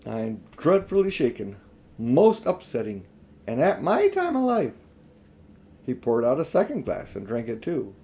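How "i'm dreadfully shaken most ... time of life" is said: a hint of a trembling old man; shaken old man. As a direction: fret like a shaken old uncle. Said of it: "he said to himself".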